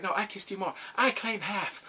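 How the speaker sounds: squabbling over a kiss, played up; mock bickering. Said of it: "They're fighting about the kiss".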